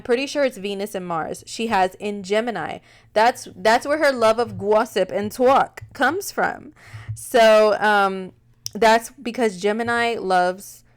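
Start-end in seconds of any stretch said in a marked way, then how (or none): 4.6-6.7 playful New York vowels on "gossip" and "talk"; Wendy Williams. Acted. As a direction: lean into a New York accent. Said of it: "Wendy and her little accent".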